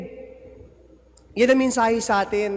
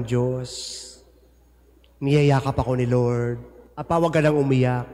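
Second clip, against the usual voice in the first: voice of the dead son; 6 semitones lower than usual. Retold or imitated. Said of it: "sinasabi sa'yo".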